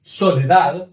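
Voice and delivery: "Soledad" with the last D barely sounded; weak final D. Shown as a demonstration. Teacher giving an example, final D hardly noticeable. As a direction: let the final D of "Soledad" almost vanish. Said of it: "ela é bem fraca".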